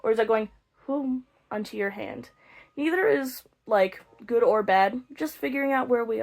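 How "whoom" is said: whoosh of steady air; imitated air stream. Shown as a demonstration. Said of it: "is your air going".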